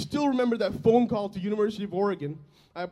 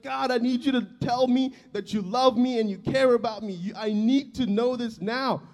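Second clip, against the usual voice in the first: retold angry plea; 3 semitones higher, 4 dB louder than usual. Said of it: "I was so angry".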